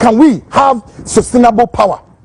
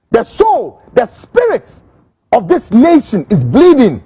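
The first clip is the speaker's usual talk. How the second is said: impassioned outcry; slower than usual. Real, not acted. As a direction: cry out that the country is bleeding. Impassioned political rant climax.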